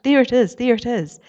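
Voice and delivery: high, loud shout of discovery. Acted. Joe spotting the island from the crow's nest, excited shout. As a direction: yell it down to the crew below. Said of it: "He started to shout".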